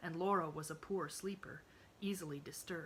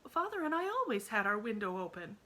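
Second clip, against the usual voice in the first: put-on higher, louder protest of a hurt child; pleading cry; 5 semitones higher, 5 dB louder than usual. A narrator's reading. Emily protests to her aunt, higher and louder. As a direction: insist on it, near tears. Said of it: "cried Emily".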